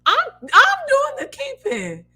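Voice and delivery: high, slow, loud put-on declaration; exaggerated self-proud voice; mock proud retort. Proudly acting out her reply.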